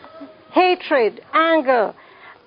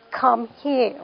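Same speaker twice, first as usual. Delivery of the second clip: stern but calm; 3 semitones lower, 4 dB quieter than usual. Shown as a demonstration. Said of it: "It's stern, it's calm, it's not screaming".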